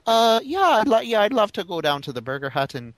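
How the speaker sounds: lightly put-on Irish brogue; casual chat with a hint of Irish brogue; Irish accent. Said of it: "have an Irish accent".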